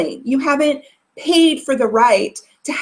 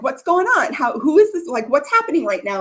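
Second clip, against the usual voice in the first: huffing husband; 3 semitones higher than usual. Retold or imitated. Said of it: "huffing and puffing".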